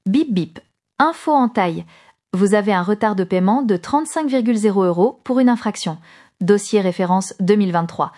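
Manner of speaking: robotic scammer voice. Shown as a demonstration. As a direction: read it out like a scam robot. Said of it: "je prends ma voix de robot arnaqueur".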